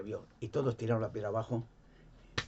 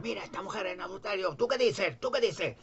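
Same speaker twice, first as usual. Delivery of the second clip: mocking challenge; 8 semitones higher than usual. Pharisees challenge Jesus with accused woman.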